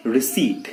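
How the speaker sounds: "receipt" as ri-SEET; silent P. Shown as a demonstration. Teacher naming what we take, silent P. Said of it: "रिसिप्ट नहीं".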